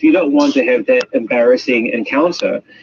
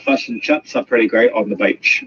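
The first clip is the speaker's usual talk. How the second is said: broad Kiwi, chips said like "chups"; New Zealand accent. Shown as a demonstration. Demonstrating for the audience, broad New Zealand accent. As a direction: exaggerate the New Zealand vowels toward "ah". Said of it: "So that's, that's New Zealand".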